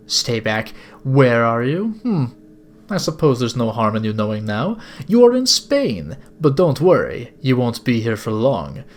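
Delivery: badly accented sinister gentleman; villainous older captor. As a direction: savour it like a courteous kidnapper. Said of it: "sorry if this is a bad accent".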